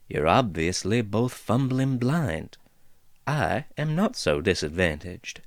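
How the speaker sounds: lightly voiced folksy dwarf, amused; easygoing dwarf teasing the intruders; chatty dwarf woman. Dwarf figure speaks.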